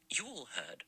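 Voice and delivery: a lightly voiced severe old lady, pressing each word; tight-lipped spinster. A narrator's reading. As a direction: spit it out through tight lips, disapproving. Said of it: "her lips tight and hard".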